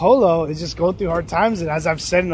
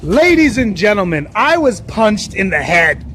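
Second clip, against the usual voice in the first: mock announcement; 5 dB louder, slower than usual. Real, not acted. Announcing the punch to viewers.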